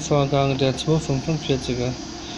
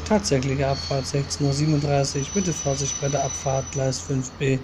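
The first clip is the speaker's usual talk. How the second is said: station announcer reading train times; calm, even railway tannoy read; flat platform announcement. Acted.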